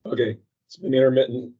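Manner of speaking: muffled, like through a wall; muffled mic sound. Real, not acted. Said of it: "Sounds like I'm muffled".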